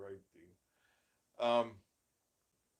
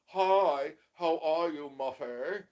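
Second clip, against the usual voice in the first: high, bright mock girl-talk voice, louder at first; girly chatter; 4 semitones higher, 7 dB louder than usual. Man mocking girl talk for his wife, high mock girly voice. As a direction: ham up a gushing girlfriend greeting. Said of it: "It's girl talk".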